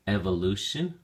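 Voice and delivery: Evolution with Ev stressed; teacher modelling stress on first syllable. Shown as a demonstration. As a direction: lean on Ev in Evolution. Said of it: "stress is now on the first syllable".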